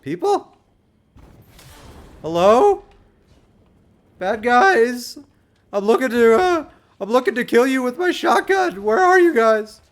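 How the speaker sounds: high, loud panicky nerd. Acted. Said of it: "that's my panic nerd voice".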